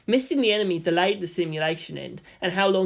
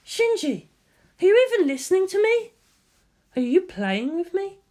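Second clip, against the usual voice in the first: higher, louder accusing questions; exasperated scolding; 14 semitones higher, 4 dB louder than usual. Acted. Ritsuko losing patience with Shinji, exasperated. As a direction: demand whether he's listening at all. Scolding pilot over intercom.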